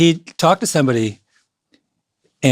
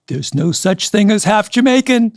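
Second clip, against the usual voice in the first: firm correction; 7 semitones higher, slower than usual. Retold or imitated. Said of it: "She says".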